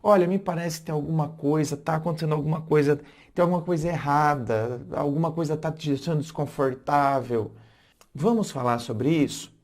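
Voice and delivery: calm caring offer; to the partner, calm and caring; gentle welcoming tone. Shown as a demonstration. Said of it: "Tá vendo que como mudou?".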